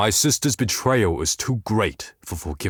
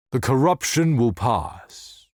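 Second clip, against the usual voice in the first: higher pitch, "corruption" pushed forward; stress on corruption; 4 semitones higher than usual. Acted. Seer foretelling an end, emphatic on corruption. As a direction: lift "corruption" high, then fall to the end. Second of three contrasting takes.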